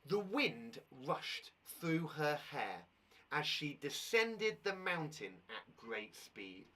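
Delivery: slow storyteller read, stopping at the pauses; slow, careful read-aloud for the class. Shown as a demonstration. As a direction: read it slowly, ready to stop. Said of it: "I'll pause at the correct places".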